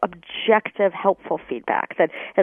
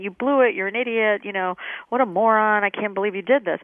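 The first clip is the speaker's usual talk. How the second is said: mock harsh scolding. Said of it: "You would never tell a friend".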